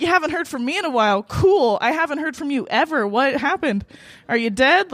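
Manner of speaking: indignant retold comeback, starting quickly; annoyed. Woman answering her ex after he ghosted her, annoyed. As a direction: fire back in sarcastic disbelief. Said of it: "So annoyed".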